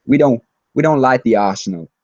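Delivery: Mark Wahlberg. Acted. Fan quoting a five-second video, lightly impersonated film star. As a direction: do a light celebrity impression with a firm push. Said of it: "I'm gonna do my Mark Wahlberg impression".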